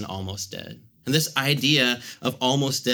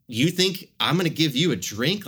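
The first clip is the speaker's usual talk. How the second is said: imitating an incredulous Samaritan woman, pitched up; higher, swooping question of mock shock; shocked disbelief; 4 semitones higher than usual. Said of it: "it's this shock of".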